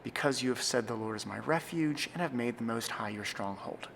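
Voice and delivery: brisk, unhurried-free private read; quick read aloud alone; fairly quick reading. Shown as a demonstration. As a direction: read it through quickly like to yourself. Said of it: "you might read it fairly quickly".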